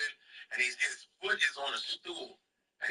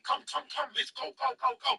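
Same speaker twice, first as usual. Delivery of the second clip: raised-pitch impression of a guide urging people along; hurrying street tout; 8 semitones higher than usual. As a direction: imitate a tout herding customers. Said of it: "This dude took us".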